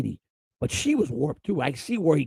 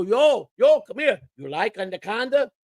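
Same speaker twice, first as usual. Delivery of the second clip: high, taunting call across the locker room; mock the clubhouse guy, grinning; teasing player voice; 6 semitones higher than usual. Teasing player calls out to the clubhouse manager, high and taunting. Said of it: "And he'd go".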